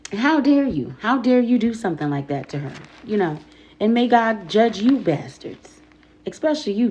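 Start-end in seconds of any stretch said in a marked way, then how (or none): 0.1-2.7 outraged. Real, not acted. Outraged at the pastor.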